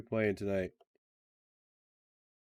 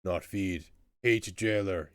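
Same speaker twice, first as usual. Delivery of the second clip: resentful troll grumble; blunt, surly troll; growling troll; slower than usual. Acted. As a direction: growl it like a hungry caged troll. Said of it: "he growls".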